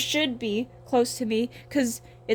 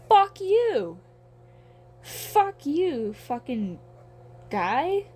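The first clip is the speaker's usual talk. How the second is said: retold angry retort; 4 semitones higher, much slower than usual.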